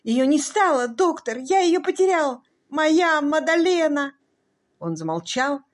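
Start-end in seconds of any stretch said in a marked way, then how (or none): 0.0-4.1 high, loud grief-stricken wail; anguished moan. A narrator's reading. Husband telling the doctor his wife is dead, anguished wailing. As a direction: cry out the loss as if torn apart. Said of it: "простонал он".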